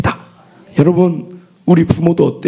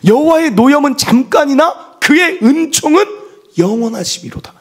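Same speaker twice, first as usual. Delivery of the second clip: proclaiming scripture; 8 semitones higher than usual. Acted. Preacher proclaiming a verse to the congregation with force.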